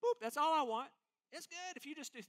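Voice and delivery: light, dismissive social-media ask; a touch of lazy request, boop and all; mock casual plea. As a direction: shrug it off like it hardly matters. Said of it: "we don't even have this".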